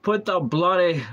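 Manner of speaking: loud, high, aggressive mock Scottish; hammed-up fierce Scottish burst; aggressive Scottish accent. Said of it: "come at it with aggressiveness".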